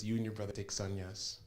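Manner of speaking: quiet, gentle-volume instruction from a guru; soft blessing. Retold or imitated. Swamiji granting sannyas to two brothers, soft blessing. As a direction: grant it softly, imitating the guru.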